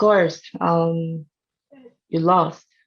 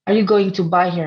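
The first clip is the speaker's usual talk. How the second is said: teasing quiz question; 4 dB louder, much faster than usual. Real, not acted. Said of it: "I'm asking you guys".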